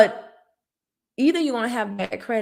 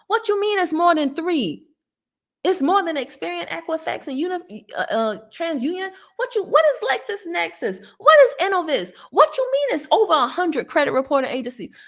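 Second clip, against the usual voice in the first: higher, louder disbelief; escalating what-do-you-mean outrage; rising exasperated disbelief; 8 semitones higher, 4 dB louder than usual. Retold or imitated. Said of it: "I was like".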